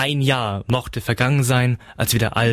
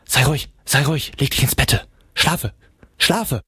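higher, urgent hushing call; mother calling after; 4 semitones higher than usual. A narrator's reading. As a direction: call after the child to settle down. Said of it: "rief mir die Mutter nach".

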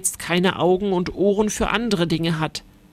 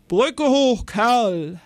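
sharp, raised order to the winch man; snapping at him; 4 semitones higher, much slower than usual. A narrator's reading. Ritter Kuno snaps at the man at the winch, curt angry command. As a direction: cut him off and snap the order. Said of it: "herrscht Ritter Kuno".

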